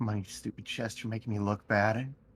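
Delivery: low, grumbled mutter under the breath. Voicing his character at a locked chest, muttering under his breath. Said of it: "He'll just kind of mutter under his breath".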